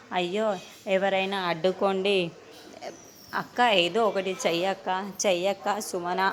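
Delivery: imitating a frantic plea to her sister; retold panicked cry. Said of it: "అని అరుస్తూ ఉంటుంది". (కొంచెం గట్టిగా భయంతో అరుస్తున్నట్లు)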